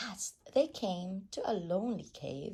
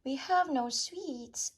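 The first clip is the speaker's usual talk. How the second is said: higher, louder little ant voice; small ants' voice; 9 semitones higher, 5 dB louder than usual. A narrator's reading. Ants answering the highway rat, piping. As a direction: pipe up timidly as the ants.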